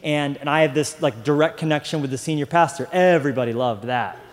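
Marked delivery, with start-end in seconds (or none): 2.9-4.2 sarcastic. Real, not acted. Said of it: "False, right?".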